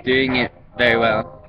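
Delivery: slow, halting attempt at a Chinese accent; badly faked Chinese accent, lightly put on. Shown as a demonstration. Vlogger unsure of the accent, halting Chinese accent. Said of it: "Chinese accent".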